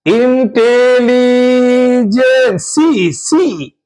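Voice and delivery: stretched slowly, syllable by syllable; slow, deliberate इंटेलिजेंसी, said to the class; drawn-out example word. Shown as a demonstration. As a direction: hold each sound of इंटेलिजेंसी long and slow. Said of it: "ध्यान से".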